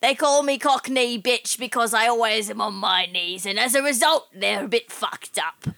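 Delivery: mock Cockney British woman; put-on Cockney accent. Pamela explains her nickname to the passengers, put-on Cockney accent. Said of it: "where did you get the accent from".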